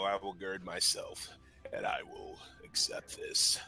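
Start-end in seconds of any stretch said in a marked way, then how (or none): 1.7-3.6 cat voice. Acted. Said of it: "in my cat voice".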